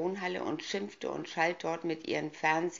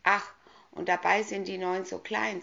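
hesitant; 3 semitones higher, 4 dB louder than usual. Acted. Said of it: "zauderte Horaz".

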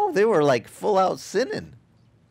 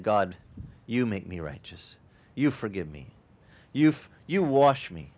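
humble sinner's prayer; 5 semitones lower than usual. Retold or imitated. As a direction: pray it small and humble. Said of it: "Or the one who said".

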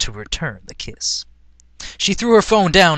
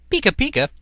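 Pikachu cry; 10 semitones higher, faster than usual. Acted. Pikachu voiced in story.

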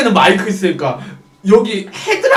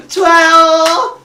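high, loud drawn-out squeal; hostess cheering; 9 semitones higher, 5 dB louder, much slower than usual. Acted. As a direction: stretch it out in a singsong, high hostess voice. Hostess cheering a singing customer.

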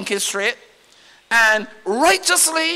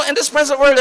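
shouted phrase; 4 semitones higher, 6 dB louder than usual. Real, not acted. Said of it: "No, no, no, no".

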